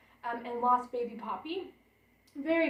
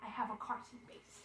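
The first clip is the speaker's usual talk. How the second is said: much softer, turned to Mom; softly to Mom; 12 dB quieter than usual. Real, not acted. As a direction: say it again quietly to Mom off to the side.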